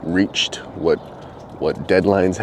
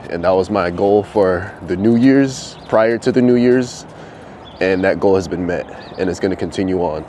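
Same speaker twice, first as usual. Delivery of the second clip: emphatic; 2 semitones higher, 4 dB louder than usual. Real, not acted. Proud emphatic declaration.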